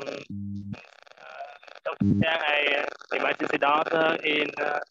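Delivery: muffled voice, like a hand over the mouth. Real, not acted. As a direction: speak through a covered mouth, muffled. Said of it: "your sound is muffled".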